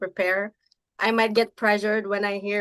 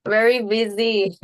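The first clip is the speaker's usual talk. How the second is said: repeated louder so it carries; 5 dB louder than usual. Real, not acted. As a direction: say it again, louder. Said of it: "Say what?".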